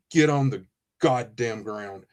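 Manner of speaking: low, slow order with restrained anger; retold stern command. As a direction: give the order slowly, voice dropped. Retold gunpoint order to a suspect.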